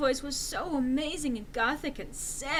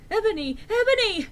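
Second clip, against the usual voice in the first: loud calls rising higher; calling out; 11 semitones higher, 8 dB louder than usual. Acted. Draco calling after running Enderby, loud. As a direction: call after her, louder the second time. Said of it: "shouted Draco sadly".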